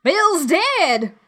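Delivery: very high, startled shout; surprised shout. A narrator's reading. Pirate calling news from inside the house, high shout. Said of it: "a voice shouting from the house".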